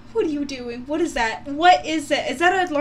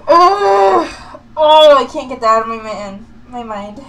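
disgusted yell; 9 dB louder than usual. Real, not acted. Reacting to gross video.

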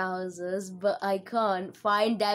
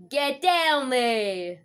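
urging; 5 semitones higher, 6 dB louder, much slower than usual. Real, not acted. Urges character downhill.

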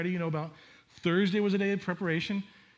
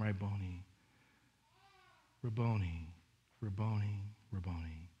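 fading awed whisper-soft; 8 semitones lower, 7 dB quieter than usual. Acted. Mary recognizes the risen Jesus.

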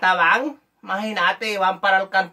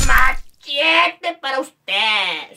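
very slow, drawn-out higher call; catchphrase call; 4 semitones higher, 3 dB louder, much slower than usual. Acted. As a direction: stretch every syllable for comic punishment. Comic catchphrase called out. (pregón cómico muy alargado)

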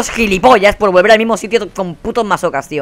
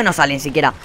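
ordinary delivery

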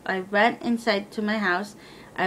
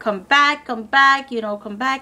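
higher, louder begging to come back; retold plea, a hint of tears; calling him back, higher and louder; mock tearful pleading; 4 semitones higher, 4 dB louder than usual. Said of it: "I was crying".

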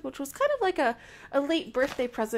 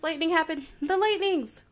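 excited cry; 4 semitones higher, 3 dB louder than usual. Real, not acted. Thunderstorm surprises her in game.

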